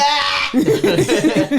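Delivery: loud, high mock bawling breaking into laughter; fake ugly cry. Guest crying on request, hammed-up sobs. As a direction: put on a comic ugly cry. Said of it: "Ugly cry".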